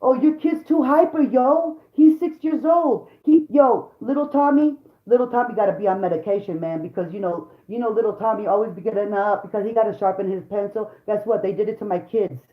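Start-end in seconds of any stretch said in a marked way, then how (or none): 0.0-10.9 mock teacher voice. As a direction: parody a preachy teacher pushing pills. Mocking teachers pushing medication.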